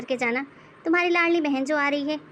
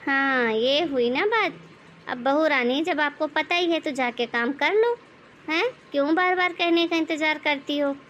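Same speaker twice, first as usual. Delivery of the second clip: nagging mother-in-law. Acted. Mother-in-law scolds the bahu for sitting with a laptop. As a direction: nag the daughter-in-law like a bossy saas.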